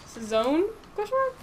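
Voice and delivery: Cezanne ending in a long "ohn", questioning; unsure pronunciation. Real, not acted. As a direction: try out Cezanne as "sih-ZOHN", unsure. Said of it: "How do you say it?".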